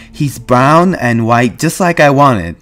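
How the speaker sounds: gasping out his joy; breathless. A narrator's reading. Lenny telling George about the pup, breathless. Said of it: "Lenny said breathlessly".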